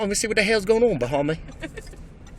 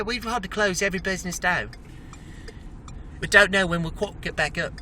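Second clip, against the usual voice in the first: hammed-up British newsreader voice; a jokey British TV reporter; mock British accent; 3 dB quieter than usual. Driver playing a British reporter, in a mock British accent. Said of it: "What happened to that British accent?".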